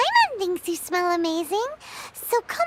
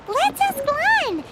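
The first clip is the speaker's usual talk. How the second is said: excited realization; 5 semitones higher, slower than usual. Acted. Sudden idea after a gasp.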